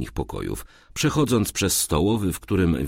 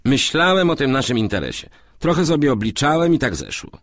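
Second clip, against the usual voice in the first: lightly voiced, high-pitched character; a hint of an eager businessman; scheming roommate; 10 semitones higher, 4 dB louder, faster than usual. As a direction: explain your sleepless night of figuring. Moryc explains his night.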